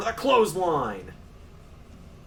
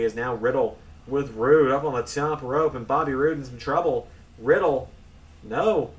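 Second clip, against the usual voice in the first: excited ringside play-by-play; wrestling commentator. Acted. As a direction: call the action live. Live play-by-play of the match.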